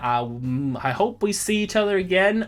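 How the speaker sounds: a hint of a Southern colonel accent; Southern gentleman accent. GM voicing Jedediah to the party in a Southern accent. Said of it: "tips his Bowler hat to you and goes".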